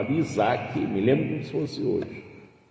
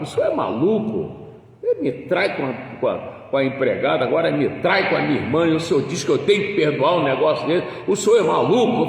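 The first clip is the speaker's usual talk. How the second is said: mulher brava; 3 semitones higher, 4 dB louder, faster than usual. Retold or imitated. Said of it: "A mulher ficou brava".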